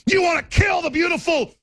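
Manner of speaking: a raging broadcaster boiling over on air; furious ranting shout. Real, not acted. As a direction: yell it at your enemies in full fury. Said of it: "not blowing up on air".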